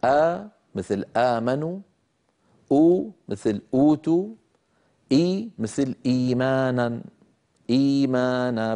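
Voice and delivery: slow examples with آ, أو, إي held two beats; آمنوا أوتوا إيمانا at two counts; vowel length demo. Shown as a demonstration. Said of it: "يمد بمقدار حركتين".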